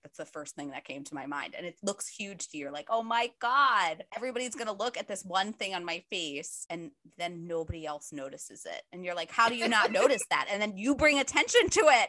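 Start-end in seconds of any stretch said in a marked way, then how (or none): 2.9-6.6 much higher, louder, slowed gasp of horror; mock panic. Friend mocks herself over a pimple, hammed-up louder panic. 9.3-10.5 much higher and louder incredulous question; mock disbelief. Friend mocks herself about an unnoticed pimple, loud mock disbelief.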